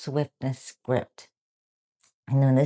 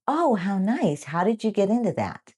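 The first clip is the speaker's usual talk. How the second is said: warm; 7 semitones higher than usual. Shown as a demonstration. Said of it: "This makes you sound warm".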